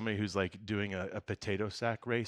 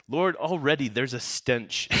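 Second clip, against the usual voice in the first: exasperated sister; 4 semitones higher, 8 dB louder than usual. Acted. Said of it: "said to him".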